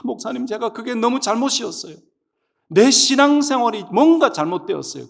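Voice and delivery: high-pitched imitated confession; tearful repentance. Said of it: "울며 회개하며".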